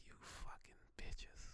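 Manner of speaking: slow, hoarse whispered curse; dying whisper. Pretend. Marilyn cursing her killers as she dies, slow whisper. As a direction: spit it out on your last breath, slowly and in a whisper.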